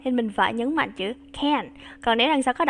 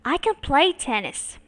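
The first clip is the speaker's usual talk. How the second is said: faster read; 2 semitones higher than usual. Shown as a demonstration. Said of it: "Nhanh hơn nha".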